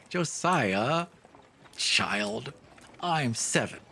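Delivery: a hint of a little girl correcting him; lightly voiced child. Little sister corrects her brother, lightly voiced child.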